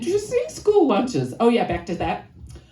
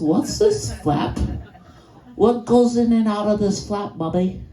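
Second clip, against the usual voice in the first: put-on nasal Chicago kid. Five-year-old asking mom about her underwear, nasal. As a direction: whine it through the nose like a five-year-old. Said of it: "I have a nasally voice".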